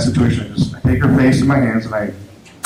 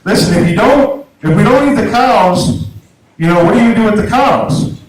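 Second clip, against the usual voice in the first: higher, pushy imitation of the angry customer; lightly hammed-up pushy questioning; mock aggressive lady; 6 semitones higher than usual. Country lady on her delivery driver, mildly mock-aggressive. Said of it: "She was being aggressive too".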